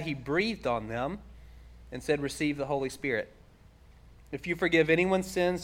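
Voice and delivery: measured, reverent Bible reading; reading John to the church, reverent; scripture reading. Acted. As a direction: read the passage to the congregation. Reads scripture passage aloud.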